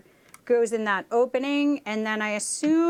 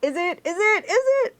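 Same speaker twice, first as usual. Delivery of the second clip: rising excitement; 9 semitones higher, 4 dB louder, faster than usual. Real, not acted. Excited about the build.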